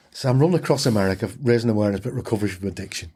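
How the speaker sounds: rattled off quickly, brushing her aside; fast, offhand, just get the pitch over with; dismissive. Retold or imitated. To a nosy cafe woman, a quick dismissive brush-off. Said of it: "I dismissed her".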